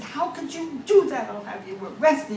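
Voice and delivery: high outraged sputter; sputtering outrage. Acted. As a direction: sputter at him in shock.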